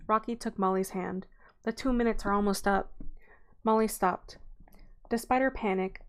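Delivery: steady read-aloud storytelling voice; audiobook-style narration with character lines; story narration. Acted. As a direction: read the chapter to your listeners. Reads the book aloud.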